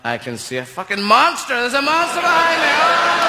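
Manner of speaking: mounting panic. Acted. Astronaut spotting a monster behind him, rising into a panicked cry. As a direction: go from chatty to sudden alarm.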